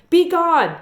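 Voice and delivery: loud, high battle cry; scream. Acted. Miss Franny screaming at the bear to leave. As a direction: hurl it at the bear. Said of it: "and screamed".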